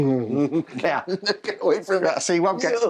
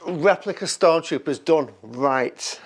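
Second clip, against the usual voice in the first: slower, punchier delivery; more energy; 4 dB louder than usual. Shown as a demonstration. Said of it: "Bit more energy".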